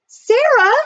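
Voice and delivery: high, loud startled call; crying out. A narrator's reading. Jack calls to his sister passing by, crying out. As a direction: call the name out high and hard. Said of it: "Jack cried out".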